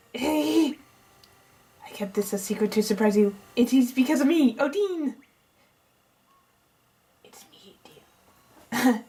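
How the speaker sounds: mildly hammed-up eccentric inventor showing off; lightly voiced excited scientist. Scientist gleefully reveals himself.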